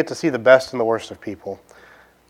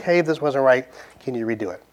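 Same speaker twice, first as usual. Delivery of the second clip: calm, easy, fading softer request; patient; 5 dB quieter than usual. Retold or imitated. Customer patiently asking the drive-thru worker, calm and kind. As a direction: ask kindly, no edge at all. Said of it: "you patiently be like".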